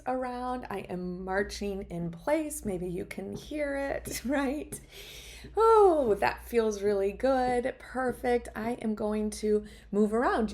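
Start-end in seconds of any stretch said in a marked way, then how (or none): 5.6-7.7 satisfied stretch sigh. Real, not acted. Stretching during live movement break.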